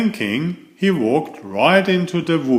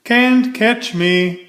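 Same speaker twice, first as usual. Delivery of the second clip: much higher, slow teasing shout; a sing-song teasing yell; 9 semitones higher, 3 dB louder than usual. A narrator's reading. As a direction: taunt from far off. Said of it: "he shouted".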